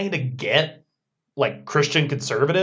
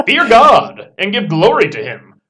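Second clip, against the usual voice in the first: tiny angel voice; 7 dB louder than usual. Pretend. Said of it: "screaming out with his tiny little angel voice".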